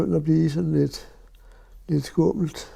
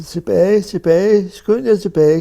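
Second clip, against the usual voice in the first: loud urgent calls of back, back; retold shout; 3 semitones higher, 8 dB louder than usual. Men on Strandvejen warning the refugees, urgent shout. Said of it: "der råbte".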